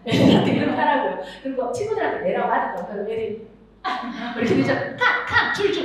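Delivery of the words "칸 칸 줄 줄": shouted game calls. Shown as a demonstration. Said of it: "이렇게 하는 거예요".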